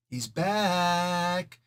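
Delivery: an eerie, hushed he's back, as if heard through a TV set; eerie Poltergeist-style he's back. Retold or imitated. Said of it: "I'm talking like Kal-El in a T V set".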